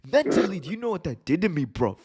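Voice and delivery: hammed-up British callout, bruv; mock British accent. Ospreay voiced calling out Seth Rollins, mock British accent.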